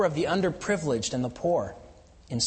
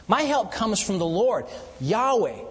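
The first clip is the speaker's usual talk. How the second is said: building proclamation; 6 semitones higher, slower than usual. Acted. Preacher proclaiming Yahweh as maker of heaven and earth, rising. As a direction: build to a ringing declaration. Sermon climax on the Lord.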